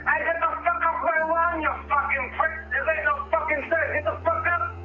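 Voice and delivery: shouting at strangers outside, furious; angry yell. Acted. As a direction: bark them away from the hotel. Yelling at people outside hotel.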